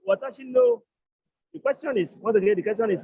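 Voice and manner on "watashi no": Watashi no said very high and breathless, voiceless; high whispered model. Shown as a demonstration. Teacher revealing the possessive form, high whisper. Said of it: "So it becomes".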